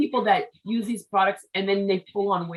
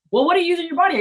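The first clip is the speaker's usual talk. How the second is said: higher, louder mock disbelief; incredulous relative; 8 semitones higher, 4 dB louder, much faster than usual. Relatives grilling her about soap, incredulous higher louder. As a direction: act out a horrified relative's question.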